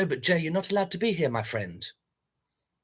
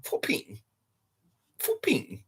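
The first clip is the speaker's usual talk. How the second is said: whispered swear; 4 semitones higher, 7 dB quieter, slower than usual. Acted.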